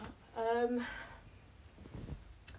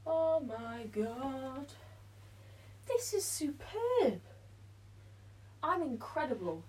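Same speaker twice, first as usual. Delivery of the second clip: delighted; 3 semitones higher, slower than usual. Real, not acted. Delighted with result.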